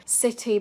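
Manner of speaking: CITY with a true T; clear British T. Shown as a demonstration. Teacher contrasting accents, clear T in CITY. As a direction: keep the T crisp in CITY. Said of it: "a T in the middle of a word".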